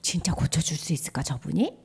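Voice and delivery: low, soft thinking-to-oneself voice; inner doubt. Acted. A leper doubting inwardly whether Jesus can heal, low and soft. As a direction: wonder privately, keeping it low and quiet. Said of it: "어떤 사람은 속으로".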